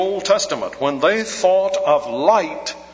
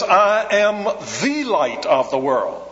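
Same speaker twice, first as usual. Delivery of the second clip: "the" in "I am the light" stressed, slightly higher; 4 semitones higher than usual. Shown as a demonstration. Preacher to congregation, stressing "the", not "a". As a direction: lean on "the" before "light". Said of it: "The definite article is very important".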